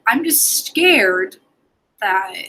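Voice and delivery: normal talking voice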